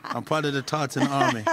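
laughing, hammed-up Scottish accent; mock Scottish accent. Boxer calling out to Josh in a jokey Scottish accent. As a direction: put on a bad Scottish accent for the fans. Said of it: "I don't even know what accent that is".

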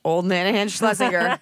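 playing her own old grandma hands; old nana voice. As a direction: cackle out the name. Repeat in crone voice.

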